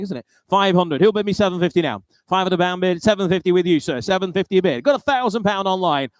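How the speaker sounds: brisk auctioneer bid calling. Real, not acted. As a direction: rattle off the bids, keep the room moving.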